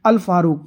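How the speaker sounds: "अल Farooq" with both vowel and l of अल sounded; alif-laam pronounced. Shown as a demonstration. Teacher showing alif-laam is read, "अल Farooq" with al pronounced. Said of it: "अलिफ लाम का तलफ़ुज़ हुआ है".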